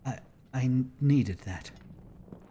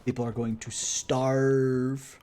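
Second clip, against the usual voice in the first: slow, louder hammed-up lament; mock despair; 3 dB louder, much slower than usual. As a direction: drag out each word in fake anguish. Mock lament over the crew.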